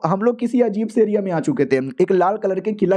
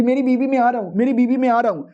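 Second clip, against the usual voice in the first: mock frantic calling; 5 semitones higher than usual. Husband rushing in to save his wife, mock frantic calling. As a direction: act out a desperate husband calling out.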